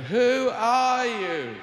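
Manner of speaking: high, slow small-creature voice; drawn-out high critter asking; small animals questioning God, high and slow. Pretend. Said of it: "Small animals are going".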